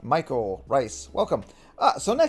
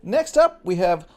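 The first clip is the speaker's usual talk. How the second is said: announcer intro; 3 semitones higher, 5 dB louder, slower than usual. Shown as a demonstration. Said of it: "that's a terrible intro".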